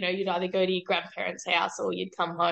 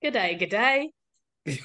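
put-on Australian accent. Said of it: "She comes in Australian today".

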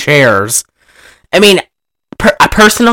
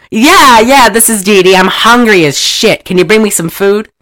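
higher, insistent put-on woman's voice; mock-impatient, pitched up; brash starlet; 4 semitones higher than usual. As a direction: play a demanding film star on the phone. Acting the starlet, Dee Dee.

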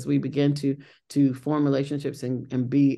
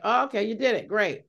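lightly voiced daughter, pitched up then falling; imitating unimpressed daughter; 7 semitones higher than usual. Mom retelling her daughter's reaction to the nomination, lightly imitated. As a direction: imitate a daughter brushing off the news. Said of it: "my daughter was like".

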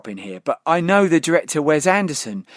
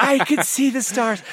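1 Matthew McConaughey impression; 8 semitones higher, slower than usual. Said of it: "the climax of True Detective".

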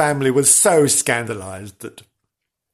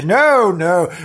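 firm denial; 3 semitones higher, 5 dB louder than usual. Retold or imitated. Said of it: "And they would say".

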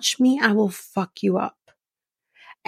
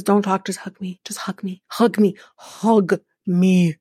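whispered plea. Retold or imitated. Man begging her for a hug.

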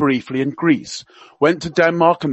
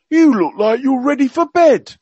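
higher, hammed-up Cockney accent; Prince Philip in Cockney; 9 semitones higher, 5 dB louder than usual. Radio guest quoting royal gaffes to listeners, mock Cockney accent. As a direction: play the old duke's gaffes in mock Cockney. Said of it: "he spoke with a Cockney accent".

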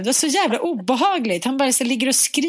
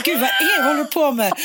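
startled mother; 4 semitones higher than usual. Retold or imitated. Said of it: "Jag bara".

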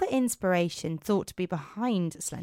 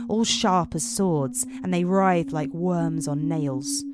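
measured storytelling voice; story narration. Acted. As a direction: tell it like a dark fairy tale. Narrates Romanian fairy tale.

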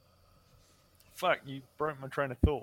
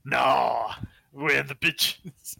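Wu-Tang lyric; 6 dB louder, much slower than usual. Retold or imitated.

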